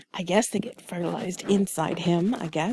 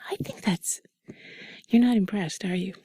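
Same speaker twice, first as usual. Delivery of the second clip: sultry narrator; 2 semitones lower, 4 dB quieter than usual. Acted. Whispered intimate chat continues.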